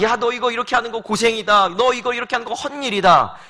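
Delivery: a hint of a mocking inner voice; tempting inner voice. Pastor voicing the whisper of doubt, mildly mocking. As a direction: lightly voice the nagging doubt. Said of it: "이 목소리가 찾아와요".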